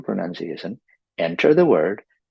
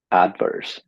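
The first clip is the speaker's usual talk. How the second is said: "adverse" stressed on AD; American stress. Shown as a demonstration. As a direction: hit the first syllable of "adverse". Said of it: "but Americans say adverse".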